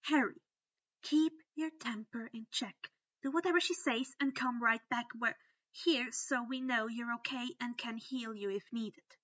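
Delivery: urgent advice before he leaves; instructing. Acted. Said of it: "Hermione instructed him".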